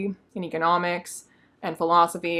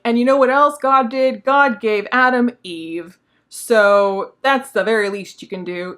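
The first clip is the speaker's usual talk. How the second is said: a hint of an indignant monster, higher and louder; mock monster demand; 3 semitones higher, 7 dB louder than usual. Monster telling his maker he's owed an Eve, mock indignant. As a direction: press the maker like a wronged creature, slowly.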